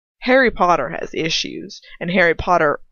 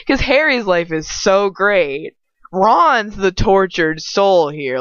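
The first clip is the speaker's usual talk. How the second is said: slow, drawn-out sarcasm; sarcastic; 4 dB louder, slower than usual. Real, not acted. Reader ranting at the fanfic's claim, slow and sarcastic. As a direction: lay the irony on thick and slow. Sarcastic rant about the fic.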